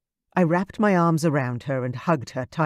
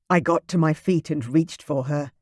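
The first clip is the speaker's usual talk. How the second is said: plain reading voice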